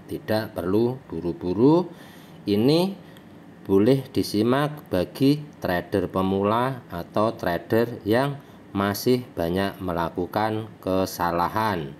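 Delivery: talking around a cigarette; cigarette in mouth. Real, not acted. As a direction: speak with a cigarette between the lips. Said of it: "saya sambil ngopi, sambil ngerokok". (sambil merokok, rokok di mulut)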